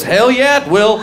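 high, eager hell yeah; excited cheer. Retold or imitated. Bystander egging the uncle on, high and eager. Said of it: "And someone goes".

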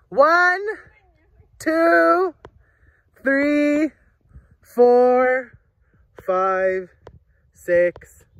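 counting out loud, drawn out. Real, not acted. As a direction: call the numbers across the maze. Counting aloud for hide and seek.

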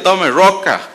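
lightly acted indignation; retold anger. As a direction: play the annoyed man handing it over. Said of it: "muy bravo, le dice".

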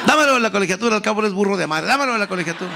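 high, laughing mock fan cry; pleading like a giddy fan mom; mother fan. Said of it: "gritaba mi mamá".

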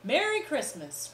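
merry group farewell; cheerful cry. Acted. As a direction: call it out together. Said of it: "cried one and all".

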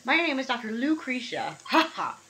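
lightly voiced lady scientist; matter-of-fact scientist. Scientist lady greeting the seeker, matter-of-fact. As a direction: state it like a brisk researcher. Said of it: "matter of fact scientist lady".

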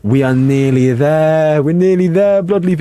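gasping, high and loud; thrilled the milestone is close; excited. Real, not acted. Streamer to subscriber Bloodleaf, excited gasp.

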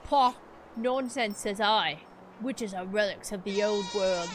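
lightly voiced British storyteller; a villager recounting rumours, amateur British accent. Reads villager dialogue in accent.

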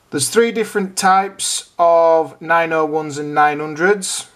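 ordinary talk, nothing marked

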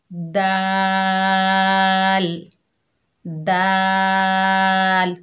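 दाल very slow, thin, lips spread; long, fine दाल; दाल stretched with spread lips; thin dal. Shown as a demonstration. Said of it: "बारीक हर्फ है".

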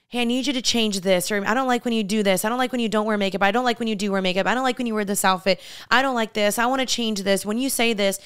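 quick run of nitpicking demands, lightly acted; imitating a picky partner in a fast list; rattled-off complaints. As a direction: reel off the complaints without a breather. Voicing critical boyfriends' list of demands.

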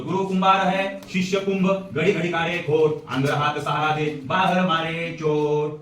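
spoken verse with drawn-out line endings; recited couplet. Shown as a demonstration. Teacher repeating Kabir's doha to explain it, measured recitation.

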